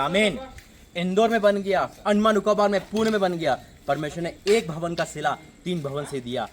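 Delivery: emphatic sermon in surging phrases; insistent preacher's cadence; fervent preaching. Real, not acted. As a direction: drive each example home, then settle into a firm promise. Preaches on giving.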